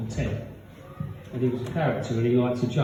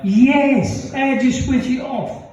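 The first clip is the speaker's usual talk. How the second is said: high, loud granny voice; excited old lady; 10 semitones higher, 6 dB louder, slower than usual. Retold or imitated. Old woman points at the Black Mamba, high and loud. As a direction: crow it like a delighted granny.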